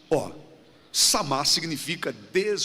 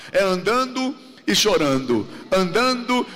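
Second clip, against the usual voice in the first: andando said louder with falling tune; emphasis on andando; 5 dB louder than usual. Shown as a demonstration. Preacher insisting to the congregation, loud stress on andando. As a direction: lean hard on andando. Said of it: "a Bíblia é com ênfase".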